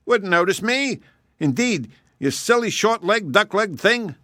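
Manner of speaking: the proud hare bristling at an insult; scornful hare. Acted. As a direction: hare mocking the hedgehog's short legs.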